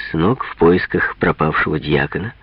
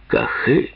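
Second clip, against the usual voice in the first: gypsy-style whoop; 6 semitones higher than usual. Acted. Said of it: "по-цыгански ухает великолепный Ферапонт".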